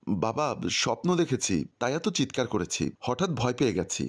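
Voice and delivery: usual speaking voice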